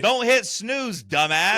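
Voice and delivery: loud, drawn-out high-pitched telling-off; exasperated scolding. Real, not acted. Podcaster scolding co-host over an alarm, loud and exasperated. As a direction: scold him loudly, stretching the words.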